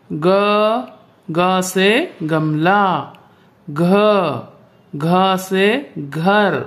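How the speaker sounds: each letter set out slowly, with a pause; slow consonant drill. Shown as a demonstration. Teacher reciting consonants to pupils, slow and clear. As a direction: chant the alphabet for a class. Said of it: "हम आगे व्यंजन और पढ़ लेते हैं".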